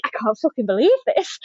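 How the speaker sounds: fast, laughing half-shout; laughing disbelief. Retold or imitated.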